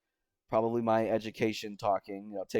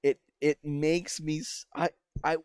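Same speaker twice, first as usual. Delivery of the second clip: worked up, stumbling into a sigh; 4 semitones higher than usual. Real, not acted. Reviewer fed up with inappropriate music, getting worked up. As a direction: stammer in exasperation, then sigh. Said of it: "I'm getting worked up".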